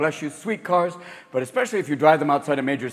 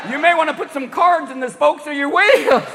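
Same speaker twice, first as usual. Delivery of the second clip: Southern redneck; 8 semitones higher, 3 dB louder than usual. Acted. Gas station locals calling Bobby over to mock the hybrid, Southern. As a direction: holler like a small-town Southern gas station guy.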